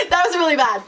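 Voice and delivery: laughing through an apology. Real, not acted. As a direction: giggle while saying sorry. Laughing at own embarrassing story.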